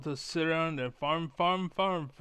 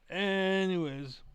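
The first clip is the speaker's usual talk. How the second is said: anyways stretched out slow and pitched higher; drawn-out sing-song anyways; 5 semitones higher, slower than usual. Real, not acted. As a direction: let anyways float up high and linger. Wrapping up the rant.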